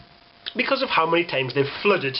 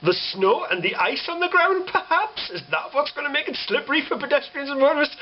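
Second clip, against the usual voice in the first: sarcastic; 9 semitones higher than usual. Real, not acted. Mocking rhetorical questions.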